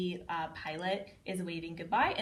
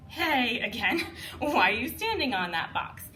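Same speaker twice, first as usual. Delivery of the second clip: playful call-out; 4 semitones higher, 6 dB louder than usual. Shown as a demonstration. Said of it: "another one we do is".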